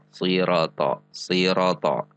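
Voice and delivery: sirata with RO cut to one short beat; shortened ro. Shown as a demonstration. Warning learners about dropping a letter, short RO in sirata. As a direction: keep the middle vowel of "sirata" short. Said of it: "maka ro menjadi satu harokat".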